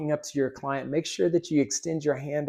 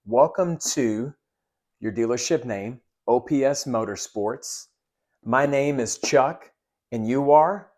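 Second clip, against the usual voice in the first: confident, friendly welcome with a rising ask; genuine greeting; 3 dB louder than usual. Shown as a demonstration. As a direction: greet the client warmly, rise on the question. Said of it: "you're using the right tonality".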